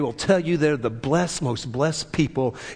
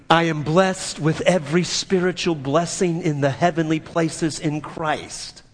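steady group recitation, stretched at the end; measured cadence. Shown as a demonstration. Preacher leading the confession again, measured cadence. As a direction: recite it in an even rhythm for others to follow. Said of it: "Now that you got that cadence down".

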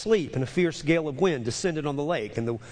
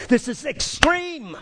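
slow, higher and louder proclamation; raised, deliberate preacher emphasis; emphatic; 8 semitones higher, 3 dB louder, slower than usual. Real, not acted. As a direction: proclaim it to the whole room. Preacher's loud climax then hushed echo.

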